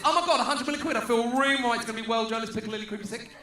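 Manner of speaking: mock Essex excitement. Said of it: "their press conference goes like this".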